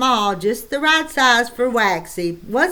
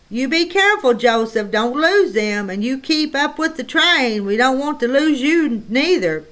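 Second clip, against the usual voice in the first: fussy mother; 3 semitones higher than usual. Acted. Mother scolding son from wagon.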